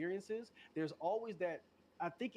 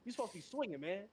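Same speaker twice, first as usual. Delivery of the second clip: imitated yelling; 7 semitones higher than usual. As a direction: mimic a friend yelling at you mid-game. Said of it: "yelling at me like".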